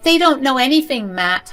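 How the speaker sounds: high, loud retort; defensive wife. A narrator's reading. Wife snaps back at husband.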